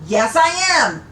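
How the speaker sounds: insistent retort. Acted. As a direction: insist hard. Parvana arguing back.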